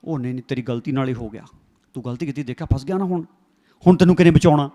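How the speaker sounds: low, soft mocking taunt; taunting devil voice. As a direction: sneer like the devil gloating over a trapped sinner. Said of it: "ਜਿਹੜਾ ਕਹੀ ਜਾਂਦਾ".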